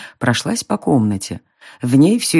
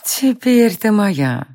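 higher, very slow, eerie whisper; demonic whisper; 6 semitones higher, much slower than usual. A narrator's reading. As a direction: breathe it like a possessing spirit. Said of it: "прошептала она".

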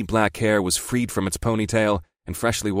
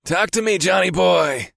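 high, drawn-out teasing call; high-pitched teasing greeting; ribbing; 9 semitones higher, 3 dB louder than usual. A narrator's reading. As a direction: rib your buddy in a high, playful voice. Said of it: "my friend ribbed".

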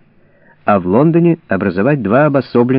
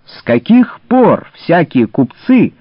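raised, higher indignant shout; angry shouting; 6 semitones higher than usual. A narrator's reading. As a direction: hurl the accusations angrily. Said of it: "закричал Конрад Шрам".

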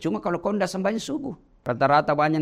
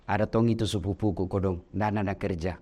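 pitying sigh; 9 semitones lower, 4 dB quieter than usual. Pretend. Imagined pitying remark.

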